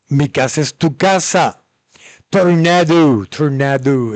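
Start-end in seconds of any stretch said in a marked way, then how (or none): 2.3-4.1 "tornado" with American r and drawn-out vowels; American accent. Retold or imitated. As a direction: say "tornado" like a gringo. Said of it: "Eso viene del español también".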